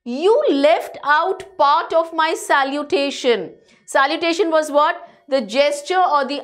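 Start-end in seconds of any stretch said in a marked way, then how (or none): 0.0-3.5 mildly irritated, slightly higher and slower; a touch of peevish reproach, drawn out. Acted. Think Tank scolds apprentice Noodle over his salutation, peevishly. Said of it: "Think Tank peevishly, a little irritated".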